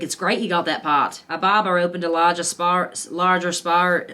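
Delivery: shaky first-try Australian accent. Shown as a demonstration. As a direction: attempt the drill lines in a beginner's Australian accent. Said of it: "let me see if I have it".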